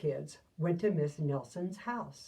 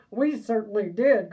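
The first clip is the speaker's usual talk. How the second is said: much louder eager cry; cried out; 3 semitones higher, 10 dB louder than usual. Acted. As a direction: shout it back happily like a class of kids. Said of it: "cried all the kids".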